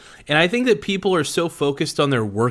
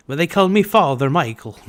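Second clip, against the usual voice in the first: hammed-up bad Irish accent, higher and louder; terrible Irish accent; 4 semitones higher, 6 dB louder than usual. Joking on stream in a terrible Irish accent. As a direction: put on a cheesy Irish priest accent. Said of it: "It's just a terrible fucking accent".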